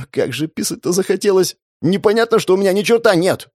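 high squeaky breaking voice; the throat keeps cracking into a squeak. A narrator's reading. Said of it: "совладать с рвущимся из горла петушком". (срывающийся на петуха голос)

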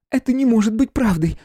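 high loud protest; exclaiming. A narrator's reading. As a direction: cry out, refusing to believe. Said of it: "воскликнула она".

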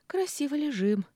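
tickled, bright exclaim lying in the grass; amused exclaim. Acted. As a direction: marvel at the silly scene. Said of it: "сказала она".

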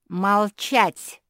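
loud barked silence; furious shout. A narrator's reading. Queen shouts everyone down, loud. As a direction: shout them down. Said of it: "закричала Беатриса".

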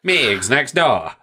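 slow, measured villain impression; lightly voiced, deliberate questioning; Hannibal Lecter. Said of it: "fucking Hannibal Lecter's like".

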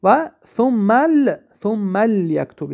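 slow "ثم لیکتب", lam left vowelless; sukun on the lam. Shown as a demonstration. Teacher showing students the lam after thumma, slowly, with sukun. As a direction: run "ثم" into a held, unvowelled L of "لیکتب". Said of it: "لام هم در اینجا چی؟ سکون شد".

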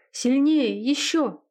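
high, loud cries of ecstasy; passionate cry. A narrator's reading.

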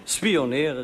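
mild mock call on Spioneren; a touch of a shout. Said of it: "riep hij nog eens".

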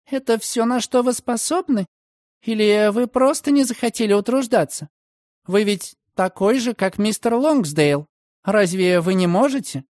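put-on high, sharp indignant girl's voice; accusing girl. Margaret accuses Redfern of not caring, high indignant voice. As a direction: press him hard, indignant.

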